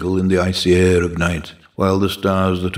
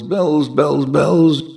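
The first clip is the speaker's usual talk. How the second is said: rising pitch; 5 semitones higher, much slower than usual. Acted. Chime of bells building up.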